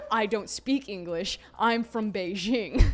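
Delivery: slow, lightly imitated Beijing accent; drawn-out mock Beijing accent, amused; thick Beijing accent. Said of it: "like, the thickest Beijing accent".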